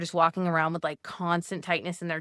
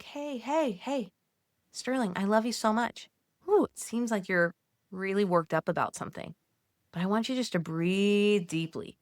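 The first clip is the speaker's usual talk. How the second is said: calm yourself like a worried friend; soothing pep talk to yourself; gentle self-soothing. Pretend.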